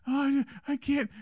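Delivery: high, put-on plea; high-pitched imitation of feeble protest; mock helplessness. Acts out faking helplessness.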